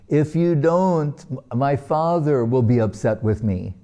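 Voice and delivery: imitating a worried little son's plea; emotional child pleading. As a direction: lightly voice a boy pleading, slowing on the first words. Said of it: "he starts becoming emotional".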